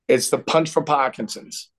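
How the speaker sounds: thick Boston accent on Punch for Parkinson's; Parkinson's with a dropped r, Pahkinson's. Real, not acted. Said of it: "Did I say that with a real bad Boston accent?".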